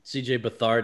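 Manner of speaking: Bethard said buh-THARD; name pronunciation variant. Shown as a demonstration. Host unsure of quarterback's name, Bethard as buh-THARD. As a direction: put the stress late in Bethard. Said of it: "so many different ways".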